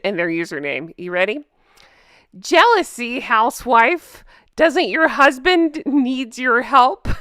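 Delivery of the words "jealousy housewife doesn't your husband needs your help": mocking commenter voice. Reading hater comment mockingly.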